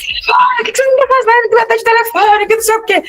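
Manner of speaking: imitated nagging mum in a high, sustained pitch; mother yelling. Mother scolding girls to answer the phone, high mock yell. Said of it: "a mãe gritando lá".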